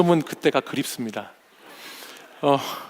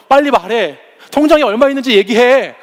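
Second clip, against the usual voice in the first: higher and louder, pressing dad to answer; demanding daughter; 6 semitones higher, 5 dB louder than usual. Retold or imitated. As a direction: push like a child demanding to know the bank balance. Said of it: "막 저한테 막 다그치면서".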